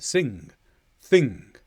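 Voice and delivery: "Sing", "thing" with a nearly silent g; faint final click. Shown as a demonstration. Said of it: "little click that comes in at the end".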